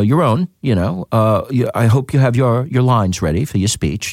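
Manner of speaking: a self-admittedly bad British accent, read lightly; British accent impression. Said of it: "awesome British accent".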